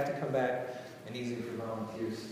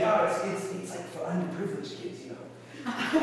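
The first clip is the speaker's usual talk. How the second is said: higher-pitched mock owner's voice; raised impression of an acquaintance, tinged with amusement; imitating a restaurant owner; 6 semitones higher than usual. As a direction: put on the owner's halting, higher voice. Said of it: "that's how he talks".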